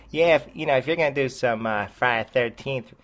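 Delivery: put-on a weak, half-hearted Boston accent. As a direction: try a Boston accent and fall short. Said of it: "oh, I can't do that Boston accent".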